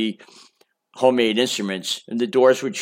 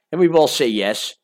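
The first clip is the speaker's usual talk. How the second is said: plain reading voice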